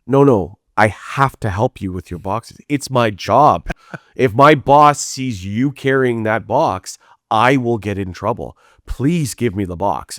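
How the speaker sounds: slow, emphatic mock plea; insistent pleading. Venue worker pleading with the performer to hand over boxes, insistent.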